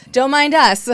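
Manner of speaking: loud, laughing mock Mando; playful Mando voice. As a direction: play Mando walking in with the baby. Acting as Mando.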